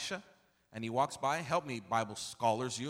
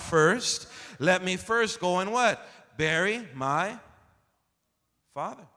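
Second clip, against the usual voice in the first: quoting loudly; 5 semitones higher, 9 dB louder than usual. Acted. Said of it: "He says".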